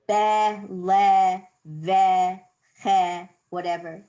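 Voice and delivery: be, le, ve, che each with a short eh; schwa as eh. Shown as a demonstration. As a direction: give each syllable a clipped eh. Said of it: "we always say the sound".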